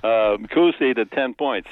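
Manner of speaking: put-on New York accent. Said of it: "New York accent".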